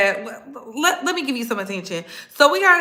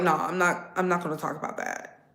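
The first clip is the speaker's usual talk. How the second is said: quiet self-talk; 6 semitones lower, 7 dB quieter than usual. Retold or imitated. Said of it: "I was like".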